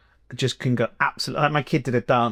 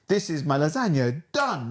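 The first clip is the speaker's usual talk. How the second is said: higher, stagey presenter voice, leaping up on done; forced TikTok voice; 4 semitones higher than usual. Retold or imitated. Chef presenting his lasagna in a forced video, higher and stagey. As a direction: play the chef's awkward, forced video pitch. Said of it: "like that".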